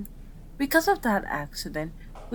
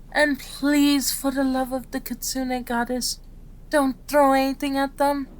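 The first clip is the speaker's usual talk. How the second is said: higher-pitched, emphatic begging; exasperated plea; 5 semitones higher than usual. Acted. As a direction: plead with a patient to behave. Pleading with patient not to throw.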